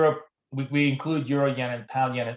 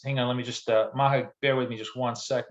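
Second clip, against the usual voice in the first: ordinary talk, nothing marked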